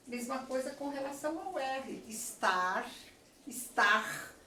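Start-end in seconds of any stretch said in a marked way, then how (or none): 2.1-2.9 estar ending in a light tapped R; tapped final R. Shown as a demonstration. Teacher comparing regional Rs: estar with a tapped R. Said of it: "conforme a região". 3.5-4.3 estar ending in a breathy throat R, like "estah"; guttural final R. Shown as a demonstration. Teacher showing a regional R: estar with a throat R. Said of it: "conforme a região".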